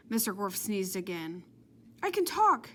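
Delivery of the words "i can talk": high, loud happy shout; excited shout. A narrator's reading. Jenny finds her voice again and shouts it, high and loud. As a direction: burst out that you can talk. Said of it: "shouted Jenny".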